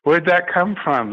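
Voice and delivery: high, baffled double take; a jolt of confused surprise; startled surprise. Retold or imitated. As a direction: retell being caught off guard. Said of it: "And I went".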